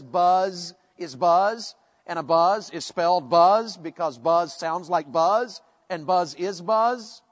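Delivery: "buzz" stretched on a long humming z; sounding like its meaning. Shown as a demonstration. Preacher explaining onomatopoeia, buzzing the word. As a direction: draw out every "buzz" like the noise itself. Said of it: "a word ... that sounds like".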